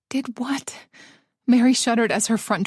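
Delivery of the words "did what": puzzled. Acted. Baffled hushed reply.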